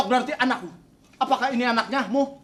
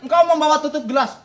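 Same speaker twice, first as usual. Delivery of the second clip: soap opera delivery; 4 semitones higher than usual. Acted. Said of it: "Kayak sinetron ya".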